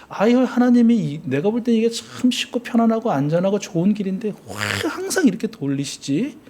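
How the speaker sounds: high, softening puzzled complaint; puzzled grumble. Retold or imitated. Preacher voices listeners upset by God's detours, in puzzled grumbling. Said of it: "속상한 적이 있으셨다면".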